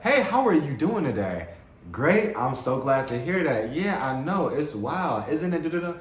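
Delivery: upbeat coffee-shop chatter; cheery small talk. Acted. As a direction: greet a barista warmly. Acting friendly coffee-shop chat.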